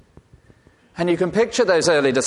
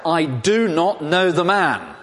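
slow, higher, emphatic denial; Peter swearing denial; 5 semitones higher, 3 dB louder, slower than usual. Retold or imitated. Preacher voicing Peter's sworn denial, slow and emphatic. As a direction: drive each word home as a frightened oath. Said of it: "he began to invoke a curse on himself and to swear".

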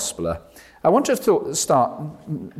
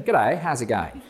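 slow, laughing Australian g'day; Australian greeting. Retold or imitated. Preacher imitates an Australian striking up a chat, Australian accent. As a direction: drawl it like a friendly Aussie. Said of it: "if you're Australian".

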